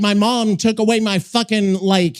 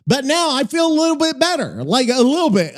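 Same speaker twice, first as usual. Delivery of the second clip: slightly slurred speech; words running together, slurred; 4 semitones higher, faster than usual. Real, not acted. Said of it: "I just fucking slurred my words".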